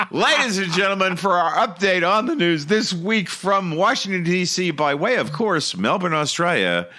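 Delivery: mock show-host announcement; announcer intro. Host opens the news segment for listeners, mock announcer. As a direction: present it like a grand TV host. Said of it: "it's now time for the news".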